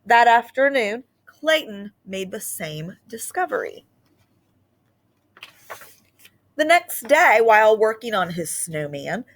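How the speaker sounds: put-on lively read-aloud storytelling to children; story narration. A narrator's reading. Teacher reading a Christmas book to her class, expressive narration.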